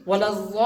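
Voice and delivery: वलज़ालीन recited with a long drawn ज़ा and ली, closing on a bare "n"; ending on plain noon. Shown as a demonstration. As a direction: stop वलज़ालीन on the n sound, no final vowel. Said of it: "सिर्फ नून की आवाज आएगी". (वलज़ालीन के आख़िर में सिर्फ़ नून की आवाज़)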